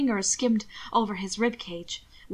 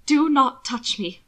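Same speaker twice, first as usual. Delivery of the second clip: frightened warning; 3 semitones higher, 5 dB louder, slower than usual. Acted. Will recoils from Hannibal.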